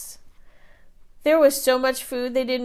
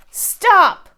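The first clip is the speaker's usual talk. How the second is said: much louder, higher cry; shouted stop; 10 semitones higher, 10 dB louder than usual. A narrator's reading. Giant wife shouts at the bean fight. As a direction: cut the mess off sharply. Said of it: "cried Missus Giant".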